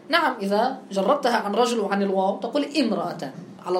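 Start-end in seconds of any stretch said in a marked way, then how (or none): 2.6-3.3 "امرأتان" begun on an i, "imra'atan"; initial kasra. Shown as a demonstration. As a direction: start "امرأتان" with a short i vowel. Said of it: "الأصل بالكسر".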